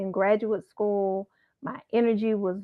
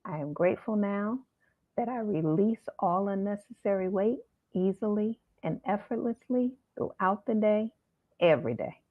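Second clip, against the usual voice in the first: mantra recital. Shown as a demonstration. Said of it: "put that in whatever order you want".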